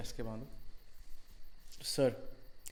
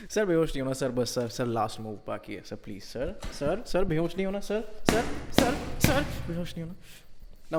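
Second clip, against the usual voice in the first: mocking shout; 6 semitones higher, 7 dB louder than usual. Torturer shouts to keep victim awake.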